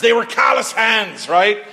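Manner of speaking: hearty loud declaration; booming retold line. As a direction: keep belting the description of rough men. Retold line to wife, shouted.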